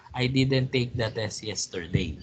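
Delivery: "I didn't take the test yesterday" in an even tone, no word stressed; level reading with no stress on any word; monotone. Shown as a demonstration. Teacher reading the example statement without stress, monotone. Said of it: "Or in monotone, wala akong stress".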